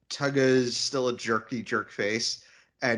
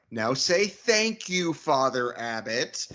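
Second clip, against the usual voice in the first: mock stern command. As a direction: make him say it like a child. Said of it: "Bosie just says to him".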